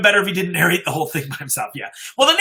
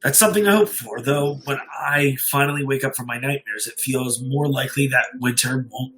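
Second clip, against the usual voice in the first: story narration. A narrator's reading. Streamer reading a creepy story to his live chat, grave narration. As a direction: read it like a haunted confession.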